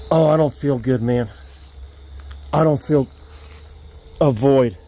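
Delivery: queasy, sick to the stomach; nauseous. Real, not acted. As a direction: talk through a wave of nausea. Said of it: "I feel like I'm gonna puke".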